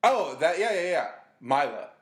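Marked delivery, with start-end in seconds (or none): 1.4-1.9 Mila said as MY-la; mispronounced Mila. Real, not acted. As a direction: say Mila with an "eye" vowel. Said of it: "It's Mila".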